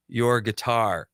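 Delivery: "Your guitar!" drawn out slowly for emphasis; quoting a text, slow and emphatic on "Your guitar!"; retold exclamation. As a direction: stretch both words of "Your guitar!" slowly. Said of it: "exclamation points".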